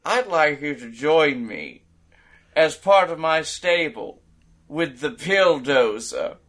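lightly voiced heel promo; villain promo. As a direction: cut a smug villain promo. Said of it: "he pulls a mic out and he says".

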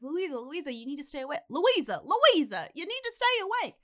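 urgent plea. Retold or imitated. Urging fading girl to stay awake.

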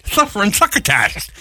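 slow, lisping cartoon cat; lightly done Sylvester impression. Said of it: "You doing Sylvester?".

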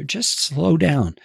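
slow and drawn out. Shown as a demonstration. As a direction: ease right down on each word. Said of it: "You don't have to be in a hurry".

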